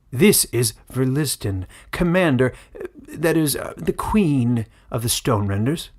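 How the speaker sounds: put-on old elder introducing a queen, loud and fawning. Elder presenting the queen to the villagers, loud and fawning. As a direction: present her with eager admiration.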